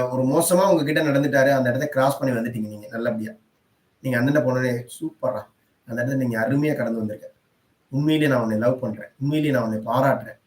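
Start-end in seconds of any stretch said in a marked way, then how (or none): 5.0-10.4 tender self-praise. Pretend. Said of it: "நீங்களே பாராட்டிக்கோங்க".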